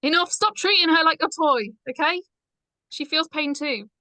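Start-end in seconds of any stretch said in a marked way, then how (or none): 0.0-2.2 angry. Acted. Charlotte defends Deborah, angry.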